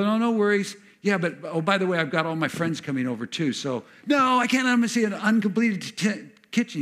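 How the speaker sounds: flustered protest. Acted. Homeowner fretting to God about friends seeing the kitchen, flustered and high. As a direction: fluster like a host caught unready.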